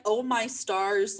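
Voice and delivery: put-on slow, dramatic old Hollywood actress; drawn-out old movie starlet. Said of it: "old Hollywood voice about them".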